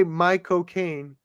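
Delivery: slow drawn-out American accent; American-accented Michael Caine sounding like cocaine. Shown as a demonstration. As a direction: say it slowly, American style. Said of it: "in American accent".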